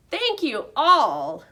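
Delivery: squeaky thanks. A narrator's reading. Hamster Humphrey thanks the cheering class in a high squeak. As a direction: squeak it out with delight.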